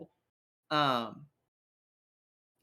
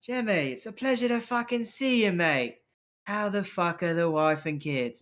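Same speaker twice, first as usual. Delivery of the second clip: over-friendly debt collector; 4 semitones higher than usual. Acted. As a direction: greet an old debtor with hearty false chumminess. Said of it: "kinda walks up and goes".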